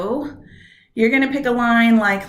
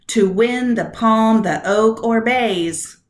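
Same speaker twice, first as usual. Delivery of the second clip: slow line, stressing WIN, PALM, OAK, BAYS; iambic stress; 3 dB louder, slower than usual. Shown as a demonstration. Teacher checking meter on line two, slow stressed beats. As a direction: hit "win", "palm", "oak", "bays", lighten the words between. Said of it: "I want to emphasize "when palm oak bays".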